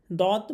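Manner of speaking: "দদ" said heavy, tongue side on molars; thick Dad. Shown as a demonstration. Teacher showing how "দদ" is pronounced, thick and heavy. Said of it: "মোটা করে পড়তে হয়".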